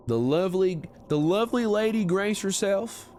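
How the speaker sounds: high, grand western announcement; grand cowboy welcome. Acted. Cowboy streamer grandly welcoming a guest, western accent. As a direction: announce the lady like a showman.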